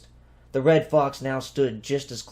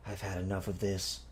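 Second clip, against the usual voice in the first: fed-up mutter; 4 semitones lower, 10 dB quieter than usual. A narrator's reading.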